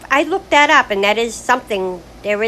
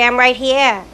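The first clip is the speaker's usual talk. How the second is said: louder, pointed protest; indignant granddaughter; 4 semitones higher, 6 dB louder than usual. Retold or imitated. Granddaughter cutting into grandma's talk, indignant. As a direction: insist you're in the room. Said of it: "She'll say".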